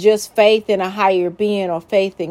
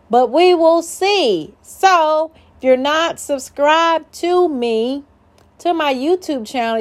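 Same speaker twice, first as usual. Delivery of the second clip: excited; 7 semitones higher than usual. Real, not acted. Upbeat outro to viewers.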